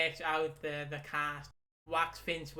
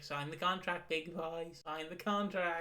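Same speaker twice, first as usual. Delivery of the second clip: Mike Tyson impression. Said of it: "the Mike Tyson clip where he's like".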